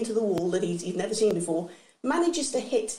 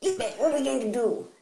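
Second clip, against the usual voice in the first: put-on royal voice, fretting; Prince Philip impression; 4 semitones higher than usual. Prince asking his wife Lilibet for help, flustered.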